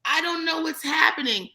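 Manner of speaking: a put-on helpless voice; mock helpless victim. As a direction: play the confused innocent. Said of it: "have this victim moment where she was just like".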